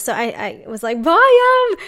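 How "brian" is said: loud, high call across the room. Retold or imitated. In pain on the bed, calling Brian to come: loud high call. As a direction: call him from the other room.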